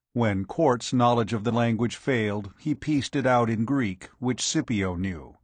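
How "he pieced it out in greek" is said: ordinary delivery, nothing marked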